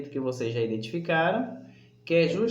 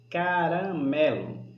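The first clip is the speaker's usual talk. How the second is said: "Caramelo" said slowly, leaning on the "me"; stress on MÉ; slower than usual. Shown as a demonstration. Teacher confirming the tonic syllable, stressed and slow. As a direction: stretch "Caramelo" to bring out "me". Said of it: "mé".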